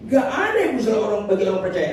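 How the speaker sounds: quick scolding demonstration; acted rebuke. Shown as a demonstration. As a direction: fire it off as a rebuke. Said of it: "Tuhan bentak orang ini". (membentak dengan cepat)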